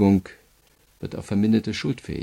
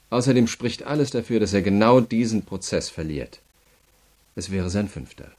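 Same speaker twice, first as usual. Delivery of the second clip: louder, hard and certain, cutting him down; forceful rebuttal; 3 semitones higher, 6 dB louder than usual. Acted. Prosecutor to the boasting prisoner, firm and louder. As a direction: slap down his boast about Dawson.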